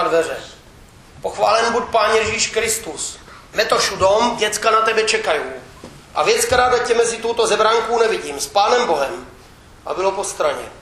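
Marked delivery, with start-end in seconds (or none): 1.2-9.3 dialect scolding wife. Acted. Wife bursts into party meeting.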